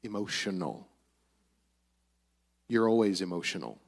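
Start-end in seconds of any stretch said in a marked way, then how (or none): 0.0-0.9 mild mock choke-up, dropping low and soft; a touch of choked-up, sinking voice; imitated choking up. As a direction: imitate someone holding back tears, lightly. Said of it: "start to get choked up".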